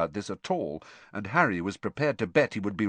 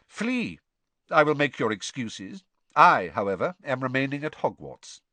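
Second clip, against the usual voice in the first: curt; 4 semitones higher, 3 dB louder than usual. Acted. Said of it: "said Snape's voice curtly".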